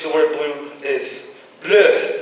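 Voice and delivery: slow dainty bleu; French bleu. Shown as a demonstration. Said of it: "Or in French".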